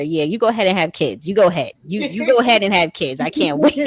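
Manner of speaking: loud, teasing dare to her daughter; mock taunting. Mother teasing her petite daughter about future pregnancy, loud and gleeful.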